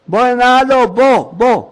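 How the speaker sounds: acted insistent hailing; calling out. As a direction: shout someone over. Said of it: "צועק".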